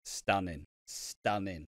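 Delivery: low, soft awestruck murmur; smitten teen. Retold or imitated. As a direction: breathe it out, lovestruck. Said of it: "And I'm just like".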